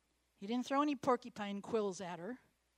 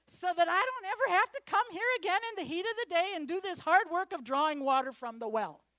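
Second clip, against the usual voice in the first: loud, high pleading woman's voice; begging woman; 7 semitones higher, 9 dB louder than usual. Acted. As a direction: call it out as the eager Samaritan woman. Woman begging Jesus for water.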